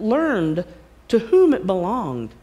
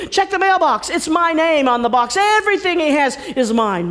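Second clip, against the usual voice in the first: loud, raised, defiant declaration; bold Jack; 4 semitones higher, 3 dB louder than usual. Acted. Jack defying the giant in his own words. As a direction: stand up to the giant triumphantly. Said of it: "he speaks to him in his own language".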